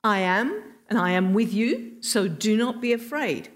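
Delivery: firm, mildly emphatic instruction; firm command. Retold or imitated. Jesus commanding the disciples in the storm, firm reassurance. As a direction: deliver it as an order, with understated force. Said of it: "it's a command for them".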